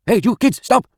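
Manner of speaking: put-on high, loud yell after fleeing kids; angry shout. Construction worker yelling at kids running from the house. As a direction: bellow at them to stop, mock outraged. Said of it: "a man's voice calling out with a thick Hispanic accent".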